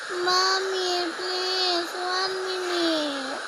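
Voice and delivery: lightly voiced child begging, words drawn out; slow, mock pleading; pretend pleading child. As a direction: plead slowly like a sleepy kid stalling mum. Child voiced begging for more sleep.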